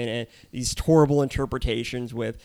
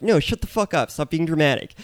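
higher-pitched dismissal; exasperated retort; 4 semitones higher than usual. Acted. Podcaster answering back to imagined speculating guests, exasperated. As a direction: cut off the melodrama.

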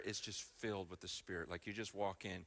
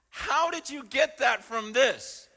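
much higher, louder and slow, astonished; incredulous disbelief; 13 semitones higher, 12 dB louder, slower than usual. Retold or imitated. Believers mocking church shopping, high loud incredulity. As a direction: stretch out the stunned questions.

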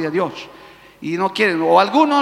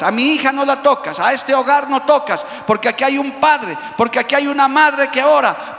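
raised, firm voice of divine command; stern commanding rebuke; 3 semitones higher than usual. Acted. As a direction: order the devil out with authority. God rebukes the devil.

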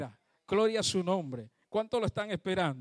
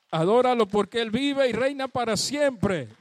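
call to worship; 6 dB louder than usual. Real, not acted. Preacher calling to worship.

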